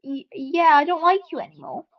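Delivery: sing-song mock of fed-up voters; mock voters' turn. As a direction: play the fickle public dropping him lightly. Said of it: "everyone was just like".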